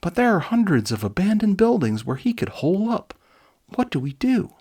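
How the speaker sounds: a jittery teammate raising alarm; nervous soldier pitching his voice up; anxious Augur. Acted. Augur worried outburst.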